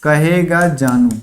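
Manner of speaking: mild loving tone; tender, slow. Shown as a demonstration. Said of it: "ये जानू शब्द प्यार से बोला जाता है". (प्यार से धीरे "कहेगा जानू")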